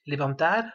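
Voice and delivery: levantar, stressed on the final A; accent tonique sur le A. Shown as a demonstration. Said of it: "accent tonique sur la voyelle". (levantar, accent tonique sur le A final)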